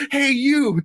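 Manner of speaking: high, hammed-up "hey, you"; mock calling out. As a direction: hail someone in a high mock call. Imitating attacker calling out to victim.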